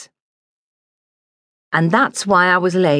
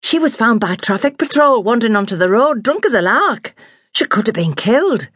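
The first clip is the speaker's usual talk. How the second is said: higher, eager retelling of drama; excited chatter; 5 semitones higher than usual. Retold or imitated. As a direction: gush it out like juicy news. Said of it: "Bill chattered on excitedly".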